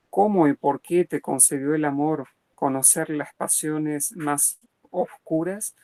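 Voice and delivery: verse reading. Acted. Lecturer reading Dante's verses to the class, measured recital. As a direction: read the poem out with weight.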